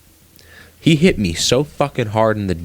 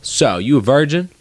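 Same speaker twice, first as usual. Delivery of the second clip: a lightly voiced blunt teammate, a bit higher; mock Cameron voice; 7 semitones higher than usual. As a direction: toss out the odd question casually, mildly put-on. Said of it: "and he goes".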